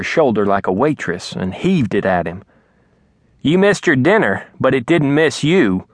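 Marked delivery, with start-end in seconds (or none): 3.4-5.9 bitter mother. Acted. Mama throws tray at Daddy.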